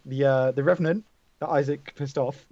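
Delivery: usual speaking voice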